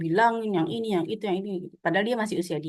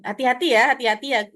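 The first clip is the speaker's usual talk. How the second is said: gentle caution; 4 semitones higher, 4 dB louder, faster than usual. Shown as a demonstration. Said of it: "kalimatnya kita ganti".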